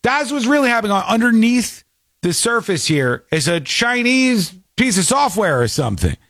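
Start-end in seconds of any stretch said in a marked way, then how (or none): 0.0-5.0 mock conspiracy. Real, not acted. Conspiracy rant about Chinese software.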